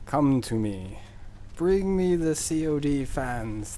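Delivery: mock summoning. Beckoning fans like Pied Piper.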